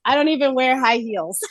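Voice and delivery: says it through a real laugh. Real, not acted. To the hosts, amused at her flat shoes: laughing through it. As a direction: laugh as you confess it.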